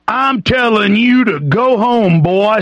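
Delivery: mimicked bossy cop. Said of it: "That's martial law in America".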